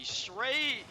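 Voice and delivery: high, punched-up commentary; excited replay call. Real, not acted. Caster describing a goal just scored, excited delivery. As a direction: ride the excitement through the description.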